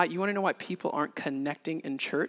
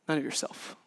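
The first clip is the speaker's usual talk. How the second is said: softer, breathed echo; whispered repeat; 5 dB quieter than usual. Shown as a demonstration. Pastor echoes the point in a hushed whisper. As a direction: let the repeat fall to a whisper.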